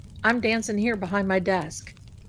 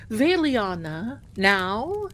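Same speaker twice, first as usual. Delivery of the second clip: intense partner; much slower than usual. Retold or imitated. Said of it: "he's very intense".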